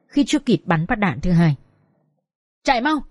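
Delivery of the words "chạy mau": mock yell to flee; contained, urgent yell; yelled order. A narrator's reading. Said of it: "Hưởng hét lên".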